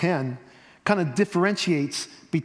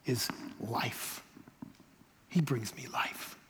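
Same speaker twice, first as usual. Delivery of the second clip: soft, low near-whisper; intimate, almost breathed; hushed reverence; 7 semitones lower, 12 dB quieter, slower than usual. Real, not acted. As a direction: let it sink in quietly and slowly. Hushed reverent close of a point.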